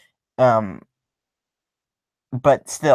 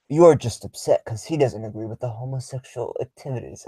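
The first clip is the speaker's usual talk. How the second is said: Advice Show. Acted. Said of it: "my best advice show impression".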